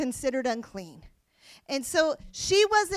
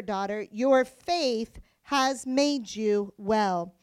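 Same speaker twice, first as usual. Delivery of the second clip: scripture reading; 3 semitones lower than usual. Acted. Reads scripture passage aloud.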